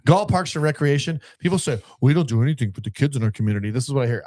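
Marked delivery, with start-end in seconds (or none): 2.0-3.7 mocking, snotty echo of a complaint; sarcastic quote of local grumblers. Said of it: "all sarcastic and snotty".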